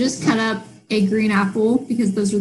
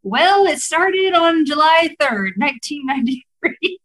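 dry, mock-serious sarcasm; deadpan a sarcastic answer; utterly sarcastic; 3 semitones higher than usual. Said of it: "me being utterly sarcastic said".

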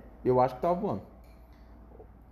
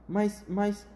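higher, stammered protest; alarmed protest; 6 semitones higher, slower than usual. Acted. Grandpa Joe fearing the glass, mildly alarmed. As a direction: sputter out the worry. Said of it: "gritou o vovô José".

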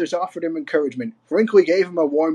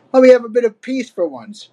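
louder, higher grumble; complaining; 6 semitones higher, 5 dB louder than usual. A narrator's reading. Donkey Kong wanting peace from Cranky, complaining. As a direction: plead crossly to be left alone. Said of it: "complained Donkey Kong".

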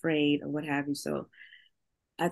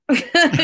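a high, loud laugh at herself; burst of laughter; 9 semitones higher, 10 dB louder than usual. Real, not acted. Admitting she's a crier, she bursts out laughing. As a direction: laugh it off, embarrassed.

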